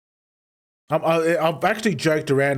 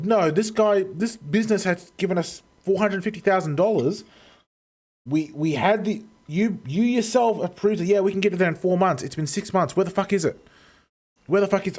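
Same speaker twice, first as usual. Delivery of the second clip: reenacted argument; 4 semitones higher than usual. Arguing for customers with managers.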